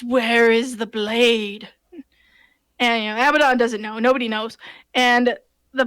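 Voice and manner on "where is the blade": very slow, hollow voice of Death; deathly hollow voice. Retold or imitated. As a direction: let each word fall like the Reaper. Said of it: "deathly hollow voice".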